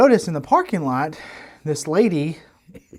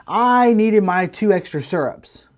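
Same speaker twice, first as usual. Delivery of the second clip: rude customer barking, slower and louder; barking demand; 7 semitones higher, 5 dB louder than usual. Retold or imitated. Rude customer barking at counter worker over syrups. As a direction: bark it at the counter girl like she owes you. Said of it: "She starts to bark at the young lady".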